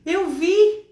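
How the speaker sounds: imitated startled child. Startled daughter telling mother what she saw, imitated alarm. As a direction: tell mom haltingly what you just saw. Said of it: "Você tá assustada?".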